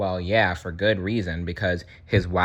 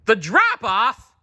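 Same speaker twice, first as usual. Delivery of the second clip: high, slow, louder alarmed question; alarmed gasp; 13 semitones higher, 5 dB louder, slower than usual. Acted. Marlin gasping at news of the drop-off. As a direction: gasp it out in horror. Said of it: "Marlin gasped".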